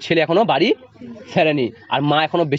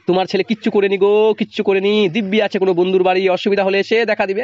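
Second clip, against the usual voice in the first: mocking dismissal; 3 semitones higher than usual. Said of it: "ব্যঙ্গ করেই উড়িয়ে দিতে চান".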